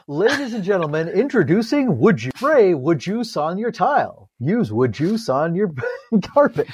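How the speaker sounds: lightly hammed-up product pitch; mock ad announcer. Pitching a made-up disinfectant to listeners, mock ad announcer. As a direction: swoop through it like an infomercial host.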